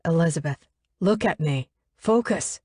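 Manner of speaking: yelling. Acted. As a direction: bark her name to break through. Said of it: "I yell at her".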